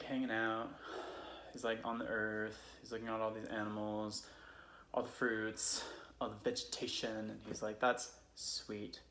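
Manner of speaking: put-on casual drunk Californian friend telling Bible stories; Californian accent. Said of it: "I'm going to tell them as a Californian would".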